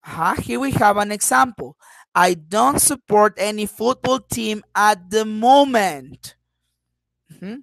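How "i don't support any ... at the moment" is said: "moment" drawn out with a raised tone, in a loud demo voice; down-and-up intonation. Shown as a demonstration. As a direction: loudly model the tune, lifting the voice on "moment". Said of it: "as I am raising at the end with moment".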